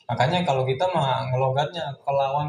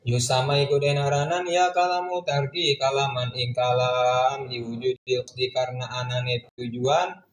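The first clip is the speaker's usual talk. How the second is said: chanted Arabic text with word-by-word Javanese gloss; kitab recitation; 2 semitones lower than usual. Acted. Teacher reading the Arabic kitab aloud to students, chanted recitation. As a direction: intone the classical text like a pesantren teacher.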